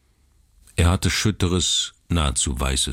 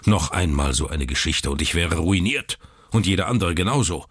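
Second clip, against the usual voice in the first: grumbling; 2 semitones higher than usual. Acted. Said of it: "brummte er".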